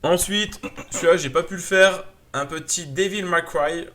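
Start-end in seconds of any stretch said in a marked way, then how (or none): 2.9-3.9 slow French-speaker attempt at an English accent. Real, not acted. Vlogger showing a game title, tentative English accent. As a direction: say it carefully in your best English accent. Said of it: "si je prononce bien avec mon accent anglais".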